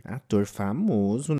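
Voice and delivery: drawn-out questioning echo, rising at the end; mock incredulous. Storyteller doubting friends about the celebrity, mock incredulous. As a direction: slowly query it in disbelief.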